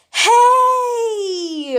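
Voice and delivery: put-on jealous girl barging in loud; loud interrupting shout. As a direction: cut them off with a sudden yell. Uraraka interrupting the conversation.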